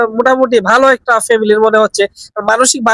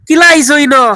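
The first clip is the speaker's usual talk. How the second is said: কিলা আইছো ইনো in Sylheti dialect, raised and coaxing; 4 semitones higher, 3 dB louder than usual. Shown as a demonstration. To a lost old man, asking in Sylheti dialect how he came. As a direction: ask it the Sylheti way, with a falling কিলা. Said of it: "Sylheti ভাষা try করে দেখি".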